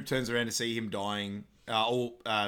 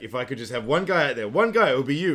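hammed-up teammate pleading; mock pep talk; 3 semitones higher, 9 dB louder than usual. Teammate urging him on, loud mock pep talk.

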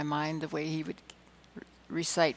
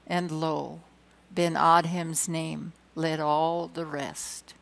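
measured, slowing poem reading; reading verse aloud, slowing at the close; poem recitation; 3 dB louder than usual. Acted. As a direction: recite the closing lines deliberately.

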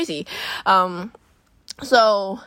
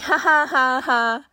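spoken ha-has, pitched up; fake polite laugh; 4 semitones higher, slower than usual. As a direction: force out a mock awkward laugh. Forced laugh while fending off touching.

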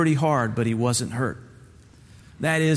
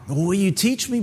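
eager, higher-pitched plea; excited question; 6 semitones higher than usual. Acted. Bubba begs his mentor to teach him, eager and high. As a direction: ask like a kid begging to learn. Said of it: "Bubba asked excitingly".

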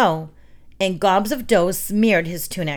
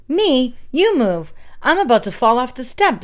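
higher, louder protest; indignant; 6 semitones higher, 3 dB louder than usual. Acted. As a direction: push back like an annoyed brother. Siblings bickering at door.

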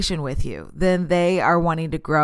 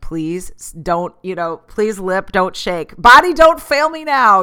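begging her body to hold it together; pleading with herself; 7 dB louder than usual. Retold or imitated. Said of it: "you're just like".

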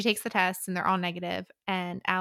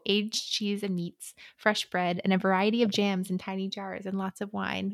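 reading a quote aloud. Shown as a demonstration. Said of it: "I would just like to read the quote".

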